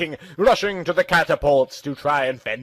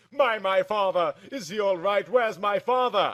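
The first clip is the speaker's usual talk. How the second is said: crying out; 5 semitones higher, 3 dB quieter than usual. Acted. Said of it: "I cried out".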